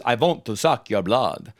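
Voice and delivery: put-on a light Dracula-style vampire accent, "want" said "vont"; lightly quoting his vampire line with a "vont" accent. Vampire actor quoting his line in a light vampire accent. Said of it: "one of my lines is".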